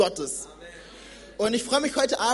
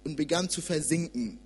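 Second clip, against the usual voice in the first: scripture reading; 2 semitones lower than usual. Acted. Young preacher reads Matthew to church, measured reading. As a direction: read the sea story to the congregation.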